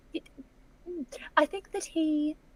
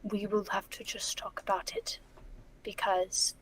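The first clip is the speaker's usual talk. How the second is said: whispering; 3 semitones lower, 11 dB quieter than usual. Real, not acted. Whispered planning.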